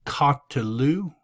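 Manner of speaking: "katelu" with the middle "e" sounded; vocal schwa. Shown as a demonstration. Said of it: "There's your accent mark, so this is a vocal schwa".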